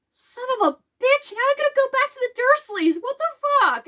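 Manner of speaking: high, exasperated rant; hammed-up teenage fury; mock outrage. Harry fuming about going back to the Dursleys, in high mock outrage. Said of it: "his biggest feelings is just".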